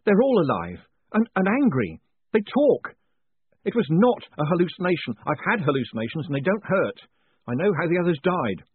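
high, loud, frantic insistence; gasping alarm. A narrator's reading. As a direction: blurt it out in panic, desperate to be believed. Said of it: "he gasped".

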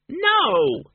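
shrieked, very high refusal; squeaky refusal. A narrator's reading. Arthur the bat refusing to change back, squealing. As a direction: dig in with a high-pitched squeal.

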